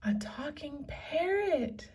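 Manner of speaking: hushed, slow breathy wonder; awed whisper. Acted. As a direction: whisper it in amazement. Annie amazed, hushed.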